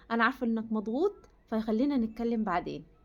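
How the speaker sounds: composed, understanding wife; calm yourself and gently defer the talk; calm reply. Pretend. Wife soothing her stressed husband after calming herself, calm. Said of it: "اهدي وحاولي تهدي نفسك".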